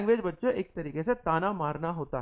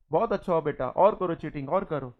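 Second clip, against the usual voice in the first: mock praise for a cheating child, a bit louder; sarcastic praise; 2 semitones lower, 3 dB louder than usual. Shown as a demonstration. Teacher scolding a cheating child with sarcastic praise. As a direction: tease the cheating kid with fake approval. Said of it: "जब इस प्रकार की tone का मैं इस्तेमाल करता हूँ".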